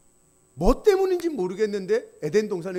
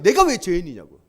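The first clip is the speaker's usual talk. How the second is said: mock angry retort; 3 semitones lower, 6 dB louder than usual. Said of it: "걔 중에 한 명이 화내요".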